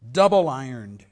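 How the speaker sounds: loud anguished cry; crying ghost. Acted. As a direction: cry out like the phantom. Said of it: "cried the phantom".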